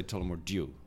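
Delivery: Tullamore Dew with DEW as "dyoo"; alternative pronunciation. Shown as a demonstration. Guest shows a third variant, Tullamore Dew ending in "dyoo". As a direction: glide into Dew, "d-yoo", in Tullamore Dew. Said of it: "some people will say".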